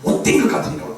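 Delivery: mildly acted stern telling-off; mock reprimand, pressing on without letup; retold scolding. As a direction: imitate God rebuking a pastor, firm and insistent. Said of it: "막 야단 치셨다는 거예요".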